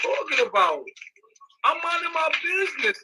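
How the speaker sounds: high angry shout; furious high yell. Real, not acted. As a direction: yell it at them, fed up. Yelling at stalkers on stream.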